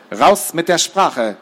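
slow, drawn-out interrogator's order; stern demand. Acted. Larissa interrogates her bound captives, stern demand. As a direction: demand a confession, slowly.

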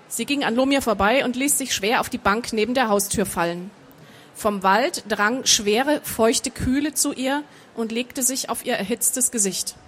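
measured audiobook narration; story narration. A narrator's reading. Author reading her fantasy novel to an audience, measured narration. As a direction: read the story out evenly and composed.

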